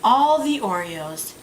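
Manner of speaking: slow, drawn-out poem reading; haiku recitation. Acted. Reciting an Oreo haiku she relates to, slow poem recitation. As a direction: recite each line slowly, pausing after it. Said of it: "it goes like this".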